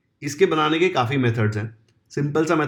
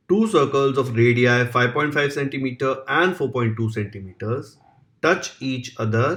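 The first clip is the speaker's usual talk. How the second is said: slow, even dictation of the question; slow exam-question dictation; dictation reading; much slower than usual. Acted. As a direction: read it out word by word for students to copy. Teacher reads question aloud slowly.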